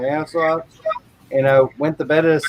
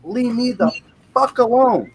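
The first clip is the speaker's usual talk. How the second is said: irritated retort; 7 semitones higher than usual. Retold or imitated. Telling his wife to leave him alone, annoyed. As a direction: shove the wife off in a half-joking snarl. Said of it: "I go".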